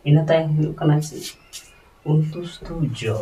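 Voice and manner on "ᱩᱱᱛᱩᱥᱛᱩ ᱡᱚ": ᱩᱱᱛᱩᱥᱛᱩ ᱡᱚ said slowly and carefully, letter by letter; slow letter demo. Shown as a demonstration. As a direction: spell out ᱩᱱᱛᱩᱥᱛᱩ ᱡᱚ slowly for the class. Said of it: "Devanagari ᱩᱱᱛᱩᱥᱛᱩ ᱡᱚ ᱫᱚ ᱱᱚᱝᱠᱟ ᱠᱚ ᱚᱞᱟ". (ᱩᱱᱛᱩᱥᱛᱩ ᱡᱚ ᱞᱟᱦᱟᱹ ᱞᱟᱦᱟᱹ ᱩᱪᱪᱟᱨᱚᱱ)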